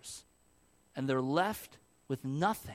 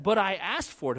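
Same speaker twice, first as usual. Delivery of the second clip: put-on mild toddler whine; 4 semitones higher, 5 dB louder than usual. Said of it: "he'll say".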